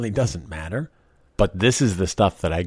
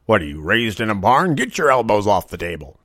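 voicing stern dad. Dad scolding at dinner.

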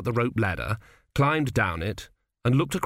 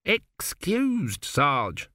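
put-on higher, slightly desperate young recruit; a shade desperate; 4 semitones higher, much slower than usual. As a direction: plead a little, like a recruit who needs to go. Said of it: "a shade desperately".

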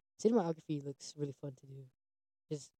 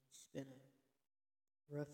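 slow and drawn out; 13 dB quieter, much slower than usual. Shown as a demonstration. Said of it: "Well, for me, yeah".

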